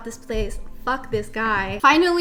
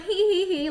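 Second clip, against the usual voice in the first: mock giggle; 7 semitones higher than usual. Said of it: "that girl's just like".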